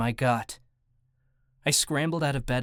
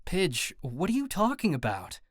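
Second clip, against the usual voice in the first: higher-pitched demanding question; 5 semitones higher than usual. A narrator's reading. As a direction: demand an explanation. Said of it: "I demanded".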